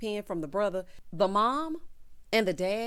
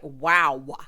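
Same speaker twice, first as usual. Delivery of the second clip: Wow tossed out through a laugh, louder; 6 semitones lower, 8 dB louder than usual. Real, not acted. Vlogger echoing the groom, laughing.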